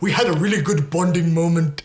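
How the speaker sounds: light Indian accent impression. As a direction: quote it in a mild Indian accent. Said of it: "But in the Indian accent".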